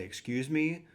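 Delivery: mock-polite stranger at the door; lightly hammed-up courtesy; very politely. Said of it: "very politely".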